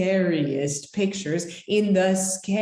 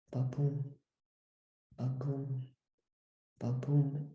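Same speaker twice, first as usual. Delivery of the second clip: slowed heartbeat; 6 semitones lower, 10 dB quieter than usual. A narrator's reading. Bookmark's heart calms down after breathing, soft low heartbeat. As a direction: let the heartbeat fade to calm. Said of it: "my heart slowed down to".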